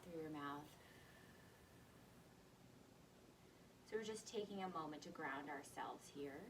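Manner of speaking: soft, calm breathing guidance; quiet grounding exercise voice with long pauses; guided breathing. Real, not acted. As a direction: ease them gently into each breath, softly.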